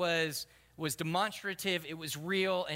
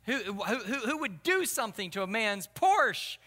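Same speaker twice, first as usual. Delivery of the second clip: outraged rant, raised and drawn out; indignant ranting; 3 semitones higher, 4 dB louder than usual. Retold or imitated. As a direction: rant in mock outrage, stretching key words. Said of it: "he began to rant and rave".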